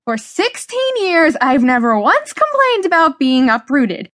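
high-pitched, impassioned outburst; angry yelling. Acted. Teenager protesting being uprooted to parents, yelling angrily. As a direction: let the grievance burst out, pitch way up. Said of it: "I was yelling".

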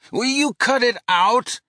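sharp, high, exasperated snap; irritated. Acted. Johnny snapping at Murph to quit joking, exasperated. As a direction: tell him to knock it off.

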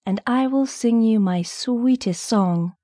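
lightly voiced pleading nightingale; cried plea. A narrator's reading. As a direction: coax sweetly, pitch lifted. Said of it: "she cried".

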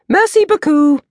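hammed-up French read; mock French. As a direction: trill it out like a proud French schoolgirl. Reading out her French advert.

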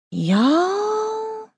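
high, drawn-out hissing drawl; drawling iguana. Acted. The iguana scolding the gossiping townsfolk, drawn-out hissing drawl. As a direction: stretch the word out like a lazy lizard. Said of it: "she drawled, slow and easy, her words hissing".

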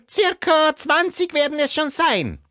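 high, scratchy smoker's voice. Acted. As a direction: croak it like a heavy smoker. Barbara answers.

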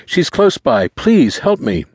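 put-on high, urgent boy's voice; high-pitched pleading; desperate plea. A narrator's reading. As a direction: beg for help as a frightened teenager. Boy begs, ignoring questions.

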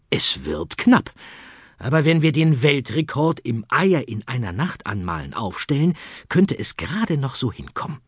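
put-on rally the boy firmly; determined rabbit. Easter Bunny rallies Arthur.

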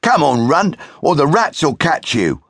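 haul him along; rough brother. Acted. Brother hurrying Shiloh.

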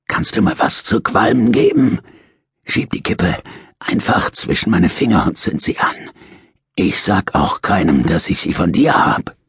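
a lightly voiced cunning old convict, coaxing; sly old prisoner. Dying prisoner coaxes his nurse for a smoke, lightly wheedling. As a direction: wheedle like a sick old crook. Earl begs for a cigarette.

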